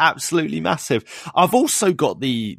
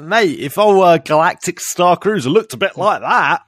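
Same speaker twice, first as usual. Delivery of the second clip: louder, higher excited gush, voice jumping up on the oh; gushing over a dream apartment; 6 semitones higher, 7 dB louder than usual. Retold or imitated. Fan to co-host about the apartment, excited gush. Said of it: "I'm like".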